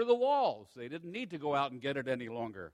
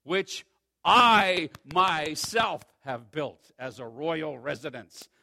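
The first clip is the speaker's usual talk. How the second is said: proud king boasting; 7 dB louder than usual. Acted. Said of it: "The king reflected and says".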